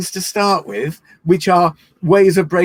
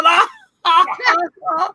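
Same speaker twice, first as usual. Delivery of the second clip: big, high put-on laugh; ha-ha out loud, pitched up high; large laugh; 12 semitones higher, 3 dB louder than usual. Shown as a demonstration. Leader steps up the warm-up, large laugh. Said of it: "and a large laugh".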